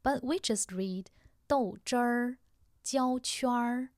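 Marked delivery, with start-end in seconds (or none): 1.5-3.9 豆汁儿 and 焦圈儿 with a curled r sound closing each word; erhua ending. Shown as a demonstration. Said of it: "there was third syllable".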